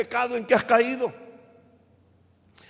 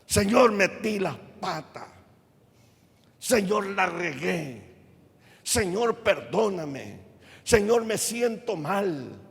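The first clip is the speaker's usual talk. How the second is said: sincere prayer; slower than usual. Pretend. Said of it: "no venga fingiendo".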